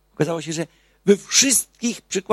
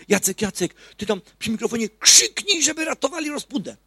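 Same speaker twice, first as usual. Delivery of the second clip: higher, louder call across the yard; neighbour's shout; 9 semitones higher, 6 dB louder than usual. Retold or imitated. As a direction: call out to Jacek like the neighbour did. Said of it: "krzyknął". (sąsiad woła głośno i wysoko do Jacka)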